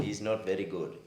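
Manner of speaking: loud Indian accent; mocking verdict in Indian accent. Shown as a demonstration. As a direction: tease in a put-on Indian accent. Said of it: "It was an Indian accent".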